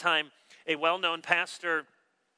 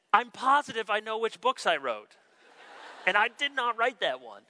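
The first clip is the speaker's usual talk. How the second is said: emphatic denial; 5 semitones higher than usual. Retold or imitated. Author correcting a stubborn pastor, retold as an emphatic denial. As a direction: push back firmly, playing it for laughs.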